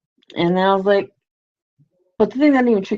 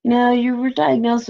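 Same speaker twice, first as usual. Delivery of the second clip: alter ego voice; 6 semitones higher than usual. Retold or imitated. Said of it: "alter ego kicks in".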